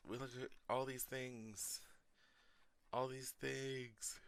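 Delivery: talking through a yawn; words stretched by a yawn. Real, not acted. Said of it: "Sorry about the yawning".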